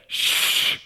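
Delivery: mock-calm shushing that firms up. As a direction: hush the screaming girls. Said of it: "I just looked at them and I said".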